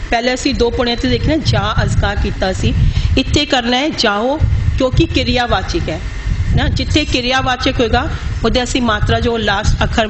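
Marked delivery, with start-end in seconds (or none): 3.9-4.4 ਜਾਹੋ with the final "o" sounded in full; pronounced ਜਾਹੋ. Shown as a demonstration. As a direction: voice the last vowel of ਜਾਹੋ as "ho". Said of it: "ਇੱਥੇ ਅਸੀਂ ਉਚਾਰਨ ਜਾਹੋ ਕਰਨਾ". (ਜਾਹੋ ਦੀ ਆਖਰੀ ਮਾਤਰਾ ਪੂਰੀ ਬੋਲੋ)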